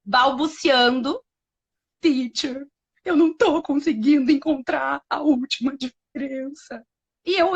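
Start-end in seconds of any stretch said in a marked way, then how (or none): 2.0-6.8 imitating a little child. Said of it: "uma vozinha do outro lado, balbuciando".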